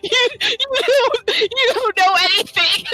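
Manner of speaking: high, squeaky squirrel voice. Retold or imitated. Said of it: "it's like".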